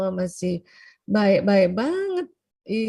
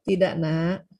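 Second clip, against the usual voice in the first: firm but gentle; 4 semitones lower, slower than usual. Shown as a demonstration. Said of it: "Itu tegas, tapi mukanya lembut".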